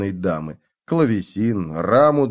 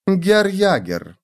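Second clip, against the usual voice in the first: slow, purring and higher; 8 semitones higher, much slower than usual. A narrator's reading. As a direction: purr the name slowly. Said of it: "промурлыкала Ульрика".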